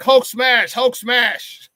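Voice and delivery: a touch of a smashing comic-book brute; lightly mock a monster's battle cry; Hulk. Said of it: "it'd have been like".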